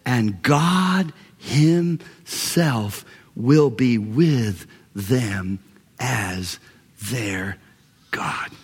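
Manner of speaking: slow, weighty Bible reading with long pauses; solemn scripture reading. Real, not acted. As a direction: proclaim scripture, stretching out the key words. Reads scripture aloud to congregation.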